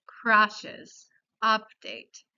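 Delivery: "crashes, update" with U said as ah; Spanish A vowel. Shown as a demonstration. Teacher giving examples of the pattern, "crashes, update" with Spanish A. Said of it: "parecida a la vocal A en español".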